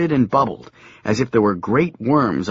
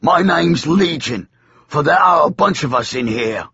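demon voice; 4 semitones higher than usual. Acted. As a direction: announce it like a demon. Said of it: "said the demon".

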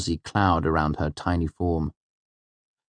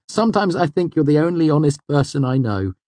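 higher, emphatic sincerity; earnest; 10 semitones higher, 5 dB louder than usual. A narrator's reading. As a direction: press the compliment on a friend. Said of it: "I said earnestly".

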